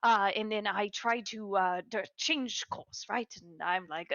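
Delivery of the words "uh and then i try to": ordinary delivery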